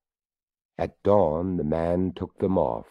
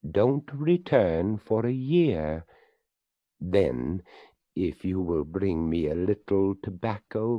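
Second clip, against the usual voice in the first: skeleton voice; 2 semitones higher than usual. Acted. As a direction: speak up as the courteous skeleton. Skeleton speaks to the boy.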